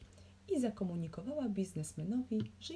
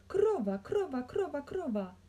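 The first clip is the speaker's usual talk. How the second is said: high, loud cry easing down; frantic repeated call, high at the start; repeated yelling; 8 semitones higher, 5 dB louder than usual. A narrator's reading. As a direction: yell it over and over. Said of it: "wydarł się".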